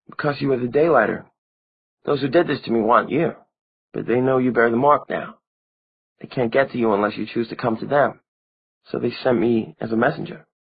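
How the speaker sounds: put-on a dead girl blaming the one who never came; young vampire girl Maureen, reproachful. A narrator's reading.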